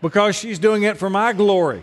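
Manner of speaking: laughing it out, pitch up; chuckling through the punchline. Real, not acted. Pastor to the congregation, laughing at his daughter's sweetness.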